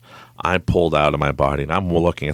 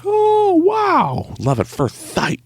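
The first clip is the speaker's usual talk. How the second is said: very high, hammed-up lovestruck awe; mock swoon; much slower than usual. Denying he was smitten at first, mock swoon. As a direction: swoon in falsetto, then drop partway down. Mocks love at first sight.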